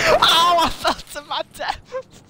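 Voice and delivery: high, laughing cry after a fall; tripping and falling. Real, not acted. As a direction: yelp at falling to death. Falling in game.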